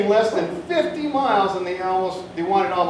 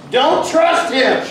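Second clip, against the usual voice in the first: slow, loud, higher warning; emphatic warning; 6 semitones higher, 5 dB louder, slower than usual. Acted. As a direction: read it with the exclamation mark. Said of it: "There is an exclamation mark".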